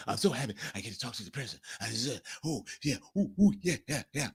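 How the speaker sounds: fast, soft fawning gush; mock bootlicker. Host lightly mocking Trump fans fawning over the president. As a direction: gush like a sycophant, lightly mocked. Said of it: "Trump glazers and bootlickers".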